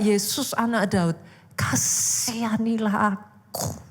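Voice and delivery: strained, drawn-out plea without real shouting; imitated desperate cry. Bartimaeus calling to Jesus after being chased away, imitated desperate cry. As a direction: stretch out KASIHANILAH AKU as a heartfelt retold cry. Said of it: "dia tetap teriak".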